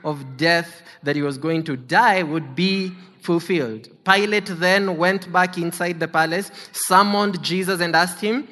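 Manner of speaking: measured, solemn Bible reading; scripture reading. Acted. Preacher reading the Passion to the congregation, solemn reading voice. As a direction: read the Gospel to the congregation. Reads scripture aloud in church.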